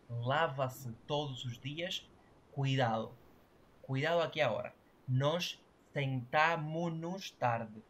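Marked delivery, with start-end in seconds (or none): 5.1-7.8 "sentamos" said slowly without its final S, as sentamu-nos; S cut from sentamos. Shown as a demonstration. Teacher showing students the cut S, slow "sentamos" without final S. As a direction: drop the last S of "sentamos", drawing the phrase out. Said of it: "esta S cortada no es por gusto".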